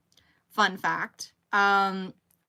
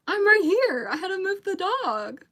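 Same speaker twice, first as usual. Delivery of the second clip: higher, teasing duh voice; mock sassy retort; 10 semitones higher, 4 dB louder, slower than usual. She retells telling her husband well duh, high and teasing. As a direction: toss it off with playful sass. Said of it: "I was like".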